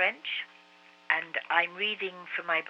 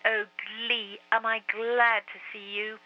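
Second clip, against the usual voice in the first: tearful; 6 semitones higher, slower than usual. A narrator's reading. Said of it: "burst into tears".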